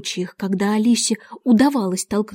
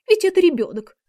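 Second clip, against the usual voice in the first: high, meek little plea; timid; 8 semitones higher than usual. A narrator's reading. King pleads for the child to the Queen, timidly. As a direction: plead meekly in a raised voice. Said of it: "робко проговорил король".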